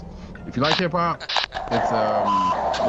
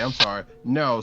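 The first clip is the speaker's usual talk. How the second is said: usual speaking voice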